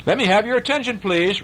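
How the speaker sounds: a tiny teacher calling the class to order; lightly voiced small teacher; mouse teacher. A narrator's reading. Mouse teacher repeats, higher.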